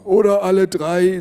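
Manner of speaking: high, loud grandpa quip; cheeky grandpa. A narrator's reading. Grandpa joking to grandma about sex, high and loud. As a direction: toss it in like a cheeky old man.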